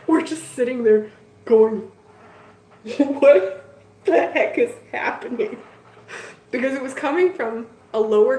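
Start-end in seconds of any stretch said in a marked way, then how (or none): 3.0-5.6 alarmed disbelief. Retold or imitated. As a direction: blurt it out, spooked by the crash. Cupboard noises erupt.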